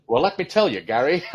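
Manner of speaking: laughing, hammed-up announcer reply; laughing mock reply. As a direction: laugh through a grand reply. Mock reply to feed line.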